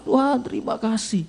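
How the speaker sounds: high, emotional prayer, re-enacted; tearful thanks. Preacher crying to God while driving, tearful thanks. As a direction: lift the thanks up plaintively. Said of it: "saya menangis".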